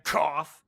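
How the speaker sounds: loud spoken fake cough; mock cough. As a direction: blurt the cough out as a burst. Reads out a cough while voicing dialogue.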